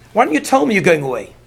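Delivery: mildly aggrieved complaint, rising toward the end; complaining father-in-law. Retold or imitated. Lavan complains that Yaakov ran away from him, mildly aggrieved. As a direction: lightly act out a wounded grievance. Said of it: "Lavan is complaining".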